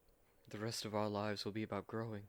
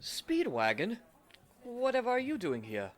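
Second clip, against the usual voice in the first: much higher and louder, a startled cry; shocked recognition; 12 semitones higher, 5 dB louder than usual. Acted. Jonathan startled to find Speedwagon waiting on them, shocked cry. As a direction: blurt it out in disbelief at the waiter.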